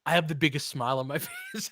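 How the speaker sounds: fast, giggling through the words; laughing. Real, not acted. Fan telling listeners he's smiling, laughing. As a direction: talk through a big grin. Grinning after the win.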